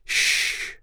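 unvoiced hushing; sharp little "shh"; admonishing shush. A narrator's reading. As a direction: shush a friend to keep hidden. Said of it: "the woman admonished".

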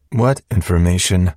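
jarring doubled machine voice; calm voice and static hiss together; two voices at once. A narrator's reading. Hologram questions Hank, both voices at once. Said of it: "both voices seemed to say at once".

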